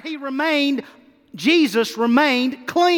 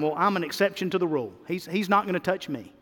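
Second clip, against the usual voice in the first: voicing doubter's thoughts; 5 semitones lower, 4 dB quieter than usual. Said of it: "thinking in your mind".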